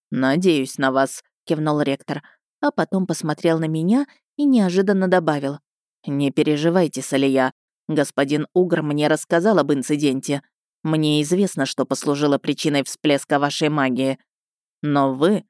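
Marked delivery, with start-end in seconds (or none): 0.1-1.2 low, slow and grave; a hint of a stern headmaster; stern rector voice. 6.1-15.4 stern rector voice. Acted.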